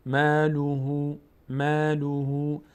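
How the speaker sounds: ماله drawn out, alif kept thin; slow recitation. Shown as a demonstration. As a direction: stretch ماله slowly, not full. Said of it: "ما پر نمیشه".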